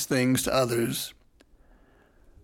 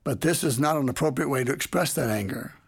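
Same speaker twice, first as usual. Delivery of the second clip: mildly quiet and calm. Retold or imitated. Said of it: "I simply and quietly said".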